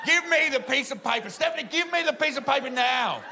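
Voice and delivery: high, shouted motherly order; livid scream. Retold or imitated. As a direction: imitate an enraged aunt demanding obedience. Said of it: "she screams across the table".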